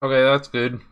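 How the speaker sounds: talking with food in mouth; chewing while talking. Real, not acted. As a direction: speak around a mouthful. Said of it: "trying to eat at the same time".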